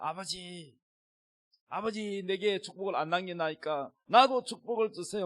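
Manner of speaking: mock crying, tearful and sobbing. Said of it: "막 울면서 막 에서가".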